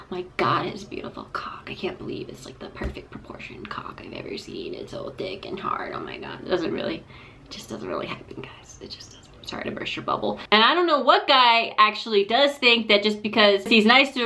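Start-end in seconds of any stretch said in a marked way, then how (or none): 0.1-6.4 hushed, breathless, reverent whisper; mock awed whisper. Guy admiring his own dick pic in an awed whisper. 6.4-10.4 whispered aside. Real, not acted.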